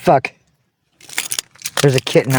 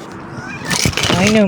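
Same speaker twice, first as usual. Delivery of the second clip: whispered to the cat; 6 semitones higher, 3 dB quieter than usual. Real, not acted. Murmured to her cat.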